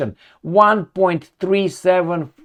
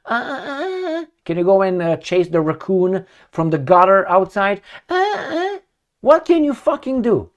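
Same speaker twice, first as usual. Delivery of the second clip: mocking whiny voice; 3 semitones higher than usual. Mocking men asked for chores.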